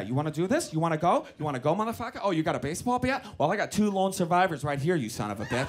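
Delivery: lightly voiced tough-guy taunts; Mark Wahlberg. Imagined showdown with the driver, mildly put-on tough guy. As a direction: needle him with quick challenges. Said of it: "I wanted to go full Wahlberg".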